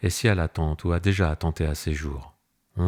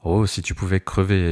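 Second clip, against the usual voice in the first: mild angry cry; 2 semitones higher, 3 dB louder than usual. Acted. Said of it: "ai-je crié".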